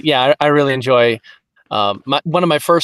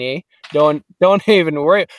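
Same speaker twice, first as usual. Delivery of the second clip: hammed-up Canadian lilt; Canadian accent with bouncy, swooping vowels; stereotypical Canadian accent; 4 dB louder than usual. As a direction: do a friendly cartoon Canadian. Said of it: "I can do a stereotypical, uh, Canadian".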